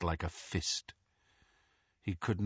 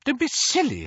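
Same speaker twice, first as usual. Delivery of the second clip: motherly scolding; 5 dB louder than usual. Acted. Mrs Weasley scolds Harry.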